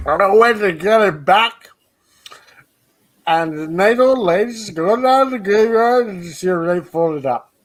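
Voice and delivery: lightly voiced drunk storyteller; a touch of drunk guy. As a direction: ramble like a drunk at the bar. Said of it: "how did you like my drunk guy impression".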